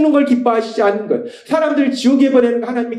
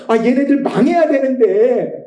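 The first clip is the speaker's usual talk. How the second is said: Jonah's grudge; 4 semitones higher than usual. Retold or imitated. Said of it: "요나 입장에서는".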